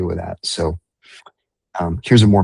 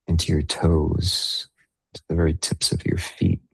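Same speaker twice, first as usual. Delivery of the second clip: unhurried meditation guide, long pauses between phrases; guided meditation. Real, not acted. Meditation leader guiding listeners into breath and body awareness, guided meditation. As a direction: ease them gently through the breathing, leaving space.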